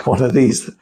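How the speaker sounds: chuckling at the absurdity; amused laughter. Real, not acted. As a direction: say it through a suppressed laugh. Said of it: "I'm laughing because it's just so absurd".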